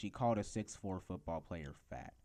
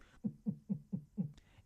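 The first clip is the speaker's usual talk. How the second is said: string of short, high-pitched stifled coughs; mock stifled coughing; 8 semitones higher than usual. Shown as a demonstration. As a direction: imitate someone trying to hold in coughs. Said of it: "you sound like this".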